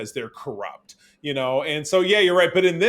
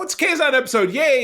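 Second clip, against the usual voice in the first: high, loud mock cheer; sarcastic yay; 12 semitones higher, 8 dB louder than usual. Real, not acted. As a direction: fake enthusiasm. Sarcastic cheer about Kazon episode.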